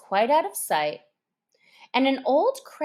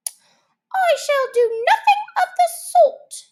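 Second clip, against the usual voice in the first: much higher, loud indignant refusal; offended mouse; 8 dB louder than usual. Acted. Offended mouse refusing Alice's help, loud and indignant. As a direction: refuse with wounded pride.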